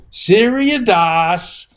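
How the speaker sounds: high exaggerated Brooklyn Jewish mom; slow, high, loud Brooklyn Jewish paging call; Brooklyn Jewish accent. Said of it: "With her Brooklyn Jewish accent and exaggerating it".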